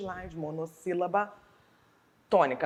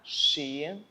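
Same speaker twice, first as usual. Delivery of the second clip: "chi... né... lo" with long pauses between; separated syllables; much slower than usual. Shown as a demonstration. Teacher separating the word for pupils, syllable by syllable. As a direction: hold each syllable, then stop. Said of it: "Na hora de separar as sílabas, eu vou separar".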